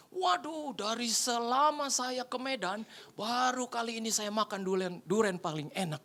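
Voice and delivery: takjub sambil memanjangkan kata; kagum. Retold or imitated. Tamu memuji durian dengan takjub. (takjub, memuji berlebihan)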